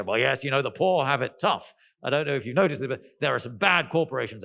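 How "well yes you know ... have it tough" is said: posh voice. Retold or imitated. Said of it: "someone with a posh voice like me".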